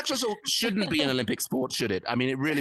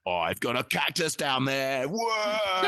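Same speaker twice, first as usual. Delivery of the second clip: slow mock bloke boast; much slower than usual. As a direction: boast slowly about the cactus, then cry out whoa. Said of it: "they'd be saying, like".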